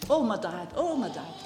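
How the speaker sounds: choked up, voice full of feeling over her dad; emotional. Real, not acted. Woman recalling her late dad to church group, emotional. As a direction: let the memory of her father catch in her throat. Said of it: "I'm getting emotional".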